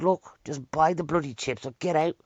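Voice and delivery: imitated exasperated order; retold snapping. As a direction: act out a shopkeeper who has cracked. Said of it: "the bloke just cracked behind the counter".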